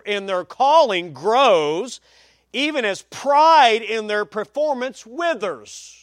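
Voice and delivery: slow, weighty pulpit reading; emphatic quote reading. Real, not acted. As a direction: build weight toward the end of each phrase.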